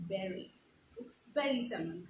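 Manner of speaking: bury said /bɛri/, like berry; bury rhymes with berry; correct bury. Shown as a demonstration. Teacher correcting students, bury said like berry. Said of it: "It's not bury".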